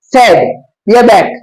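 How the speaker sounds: सैग and बैक drawn out word by word; teacher sounding out two words; slow demo. Shown as a demonstration. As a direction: stretch each word slowly for a child to catch. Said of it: "उससे आप पूछे".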